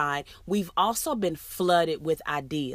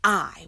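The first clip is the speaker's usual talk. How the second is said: "I" said alone, a little louder and punched; stressed I; 4 dB louder than usual. Shown as a demonstration. Teacher isolating the stressed word, punched "I". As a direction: hit the word "I" on its own. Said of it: "the emphasis is put on".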